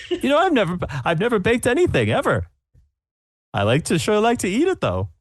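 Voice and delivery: bright, very high, gushing judge; high-pitched judge voice. Acted. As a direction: gush over the bench in a high voice.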